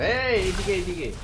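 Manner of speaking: high, loud call this way. Real, not acted. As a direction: call a teammate over. Calling teammate over.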